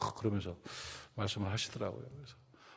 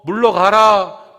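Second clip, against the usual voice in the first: protest shout; 6 semitones higher, 17 dB louder, much slower than usual. Retold or imitated. Protest chant quoted in sermon.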